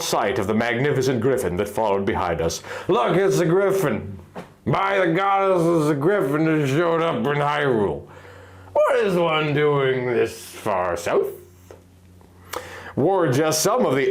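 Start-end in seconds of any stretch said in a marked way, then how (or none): 2.9-11.3 lightly voiced townsfolk. Market crowd seeing the griffin, lightly awed. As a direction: gasp it out like amazed villagers.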